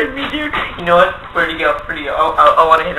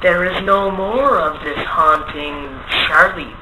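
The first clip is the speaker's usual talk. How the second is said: solemn pronouncement; much slower than usual. Acted. Magician banishing the ghost.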